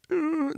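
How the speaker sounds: high, soft nervous hum. Retold or imitated. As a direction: imitate the student's uneasy little hum.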